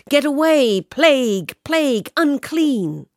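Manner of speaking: high, loud cries with falling ends; shouted warning. A narrator's reading. People shouting at the plague girl to keep away, alarmed shouts. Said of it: "they threw stones and shouted".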